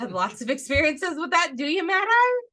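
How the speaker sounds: laughing teasing question; teasing Fred. Retold or imitated. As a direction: tease him, grinning.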